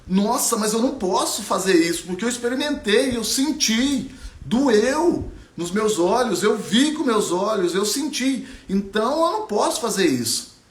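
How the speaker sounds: put-on lost girl asking the sky why; upset young Ariana. Ariana alone in a tree, asking aloud, distressed. Ariana refuses first option.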